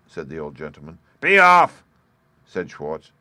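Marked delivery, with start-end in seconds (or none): 1.2-1.8 much higher, much louder yell; furious shout. A narrator's reading. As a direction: roar him out of the house. Schwartz driving him away.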